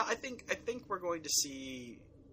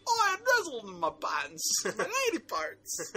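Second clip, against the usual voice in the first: a higher, louder, badly faked posh British accent; terrible British accent; 8 semitones higher, 6 dB louder than usual. Trying out a My Fair Lady accent, badly faked British. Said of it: "It was terrible".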